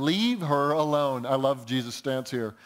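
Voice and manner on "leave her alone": slow, firm quoted rebuke; firm defence. Retold or imitated. Preacher quoting Jesus correcting the disciples, firm defence. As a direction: step in to correct them, deliberately. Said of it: "Aggressively stepping in to defend".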